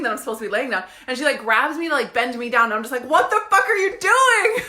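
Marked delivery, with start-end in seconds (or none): 3.1-4.6 high, loud, slow cry of disbelief; mock-outraged yell, drawn out; retold alarmed outcry. Naked customer grabbed by masseuse, alarmed outcry.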